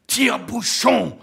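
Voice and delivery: high, slow burst of one word; called out. A narrator's reading. Ahab supplying Queequeg's missing word, calling it out. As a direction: toss out the missing word emphatically. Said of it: "lança Akab".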